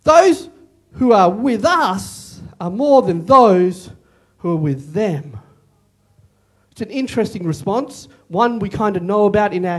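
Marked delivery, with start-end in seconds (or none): 0.0-5.4 calm assurance. Acted. Prophet reassures servant.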